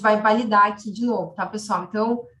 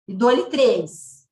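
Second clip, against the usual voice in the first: auctioneer; 4 dB louder, much slower than usual. Pretend. Raffle countdown, final call.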